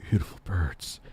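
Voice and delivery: deep put-on voice, falling away; low silly voice. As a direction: keep it absurdly low. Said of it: "continue to talk like this".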